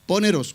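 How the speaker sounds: "Poneros" accented on the last O; stress on final O. Shown as a demonstration. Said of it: "acento en la, en la O".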